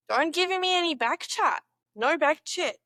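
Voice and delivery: Australian accent attempt. Shown as a demonstration. Learner scolding in mock slang, mock Australian accent. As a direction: tell them off like an Aussie parent. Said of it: "test them out".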